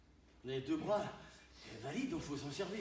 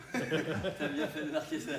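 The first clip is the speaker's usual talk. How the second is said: laughing; 6 dB louder, slower than usual. Real, not acted. Laughing remark to student.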